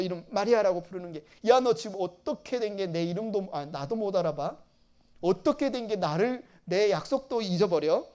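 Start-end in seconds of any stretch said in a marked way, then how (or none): 1.5-8.1 louder, imitated rebuke; Jesus imagined as scolding Mary for forgetting; mock scolding. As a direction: play an indignant teacher scolding a forgetful pupil. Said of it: "혼내시려고".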